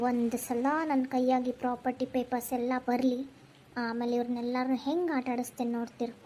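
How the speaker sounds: a schemer gloating under her breath; scheming aside. Acted. Scheming aside after the act.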